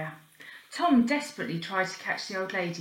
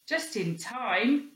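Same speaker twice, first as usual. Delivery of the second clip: sarcastic; 3 semitones higher, much slower than usual. Acted. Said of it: "said Robin sarcastically".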